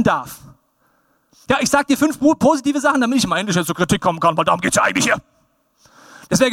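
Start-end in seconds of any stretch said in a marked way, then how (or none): 1.5-5.2 mock impatient critic. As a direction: imitate someone itching to criticise. Acts impatient critic faking praise.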